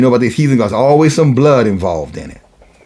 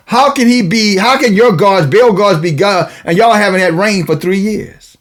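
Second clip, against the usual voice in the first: high, taunting prophet's challenge; mock their god with lifted, teasing questions; 7 semitones higher than usual. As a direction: taunt rival worshippers in a raised preaching voice. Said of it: "He's mocking them".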